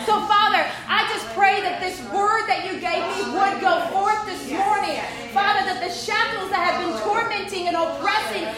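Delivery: earnest, flowing spoken prayer; fervent prayer. Acted. Preacher asking God to break the shackles, fervent prayer. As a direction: pray it out for the whole congregation.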